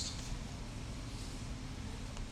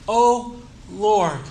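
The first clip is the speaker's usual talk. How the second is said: crying out to God; slower than usual. Retold or imitated. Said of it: "this is how David cries out to him".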